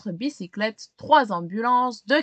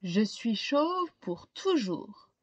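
gloomy lament; 5 dB quieter, slower than usual. Acted. Max sad at dinner.

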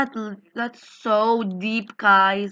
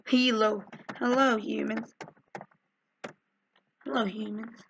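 much softer, trailing, creepy; soft eerie greeting; 3 semitones lower, 9 dB quieter than usual. Shown as a demonstration. Player greets the lobby like a soft alien. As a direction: hush it like an alien.

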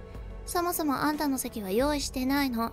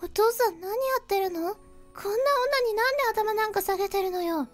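shocked disbelief; 11 semitones higher than usual. A narrator's reading. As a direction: protest in disbelief. Daughter shocked at father.

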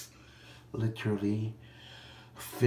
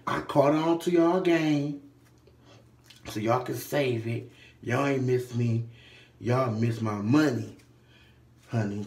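sassy telling off; 5 dB louder, slower than usual. Retold or imitated. Telling clerks off.

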